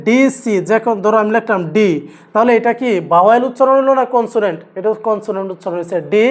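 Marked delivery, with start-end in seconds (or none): 0.1-0.5 "ডিসি" drawn out slowly, letter by letter; pronunciation demo. Shown as a demonstration. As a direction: sound out "ডিসি" slowly as 'dee-see'. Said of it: "আমি যদি উচ্চারণ করি". ("ডিসি" ধীরে টেনে উচ্চারণ)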